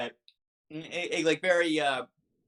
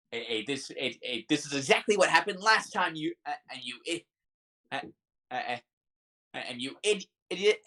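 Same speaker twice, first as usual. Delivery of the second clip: arguing wife. Acted. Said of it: "you hear shouting".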